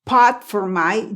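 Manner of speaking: slow "pot for", the T stopped without a burst; "pot" with unexploded T, said slowly; unreleased T. Shown as a demonstration. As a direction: hold the T of "pot" silently before "for". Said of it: "yo no exploté la T".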